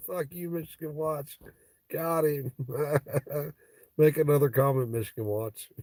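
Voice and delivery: high gloating jab at a troll; high gleeful taunting. Real, not acted.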